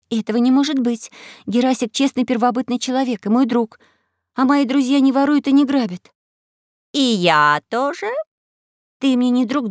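put-on indignant girl. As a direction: defend your friend hotly. Alice indignant.

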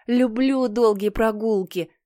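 slow, sweet goody-goody voice; eager little boy. Acted. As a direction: gush like a teacher's pet. Peter keeps cheerful voice.

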